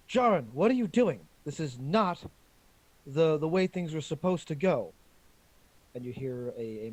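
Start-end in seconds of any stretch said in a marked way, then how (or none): 0.1-4.9 loud, high panicked yell; panicked shout. Acted. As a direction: shout at him in alarm. Woman shouting in message.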